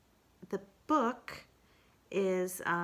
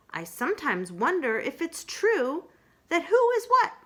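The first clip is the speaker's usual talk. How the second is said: higher, louder sing-song recital; Pooh reciting poem; 8 semitones higher, 7 dB louder than usual. Acted. Pooh recites his poem to Kanga, higher. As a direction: recite proudly in a bouncing rhythm.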